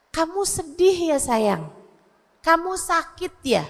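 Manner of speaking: put-on slightly softened, unhurried questions to a child; tenderly name the child's feeling; gentle mother asking. Shown as a demonstration. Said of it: "tanyain, dikasih nama emosi-emosinya".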